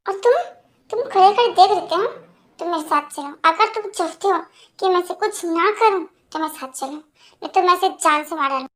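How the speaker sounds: cold, possessive threat; controlled anger. Acted. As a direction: menace him with restrained fury. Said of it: "इतना गुस्सा क्यों कर रहे हो".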